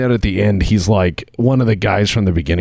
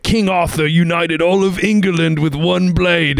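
high, slow, drawn-out proclamation; hammed-up quote; 7 semitones higher than usual. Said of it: "Like, he's like".

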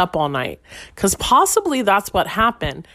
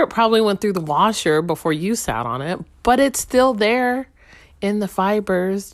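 usual speaking voice

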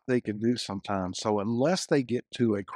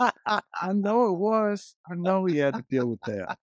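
laughing; 8 semitones higher, slower than usual. Real, not acted. Laughing agreement, Jesus comparison.

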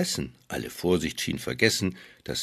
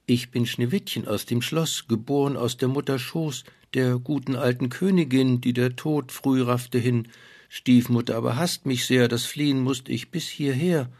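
put-on young girl voice; 4 semitones higher than usual. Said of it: "Sag, woher du kommst und wer bist du?".

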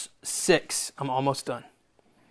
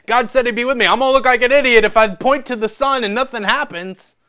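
acted worry; 6 semitones higher, 5 dB louder, faster than usual. Voices Moses' worry of looking foolish.

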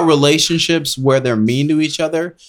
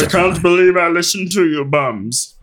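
higher, put-on voice of a disgruntled friend; grumbling angry friend; 5 semitones higher than usual. Comic imitation of the friend who sold his Bitcoin early, put-on griping. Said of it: "That's what I feel like he sounds like".

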